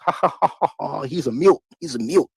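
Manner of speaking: high jeering ha ha taunt; mocking laughter. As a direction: laugh at him like a bully. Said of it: "laughing among themselves".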